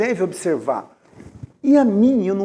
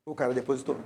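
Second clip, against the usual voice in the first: softer, with stress on "cara"; hushed repeat; 7 semitones lower, 12 dB quieter, faster than usual. Shown as a demonstration. Preacher repeats to the congregation in hushed wonder. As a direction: let "O cara depositou" sink in quietly. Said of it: "E o cara depositou".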